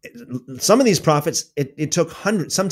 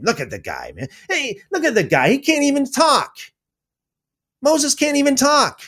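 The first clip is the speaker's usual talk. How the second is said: mocking Miriam and Aaron; 3 semitones higher than usual. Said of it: "Because they're like".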